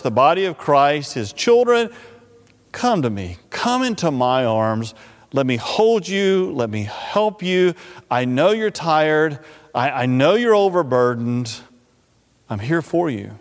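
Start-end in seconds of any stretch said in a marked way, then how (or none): 2.7-13.3 gentle, unhurried comfort; tender reassurance. Acted. Preacher as Jesus comforting the overburdened, gently.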